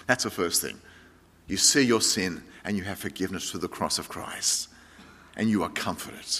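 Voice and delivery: hushed pastoral comfort; quiet reassurance. Acted. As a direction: comfort them gently.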